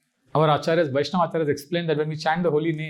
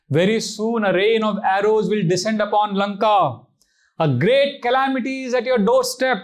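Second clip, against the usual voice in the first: rising, louder prophetic warning; Sita's warning; 5 semitones higher, 4 dB louder than usual. Acted. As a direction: warn him of doom with mounting force. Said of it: "She says".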